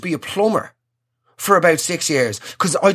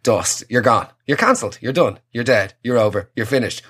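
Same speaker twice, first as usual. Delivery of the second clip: mock doom; 8 semitones lower than usual. Mock verdict after a slip.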